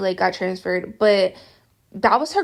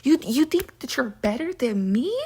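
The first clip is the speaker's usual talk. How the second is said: incredulous challenge, pitched up at first; mock indignation; 4 semitones higher than usual. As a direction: imitate an offended rival. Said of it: "it makes them even madder".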